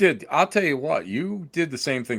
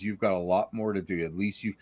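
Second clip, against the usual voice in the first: quoted friend's voice; 5 semitones lower than usual. Retold or imitated. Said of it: "you said to me".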